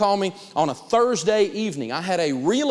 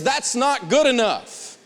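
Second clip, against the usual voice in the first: "That's not good enough" slow and punched high; "That's not good enough" drawn out, higher, each word weighted; emphatic demonstration; 8 semitones higher, 4 dB louder, much slower than usual. Shown as a demonstration. Negotiation coach teaching the phrase, emphatic, slow "That's not good enough". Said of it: "Use the phrase".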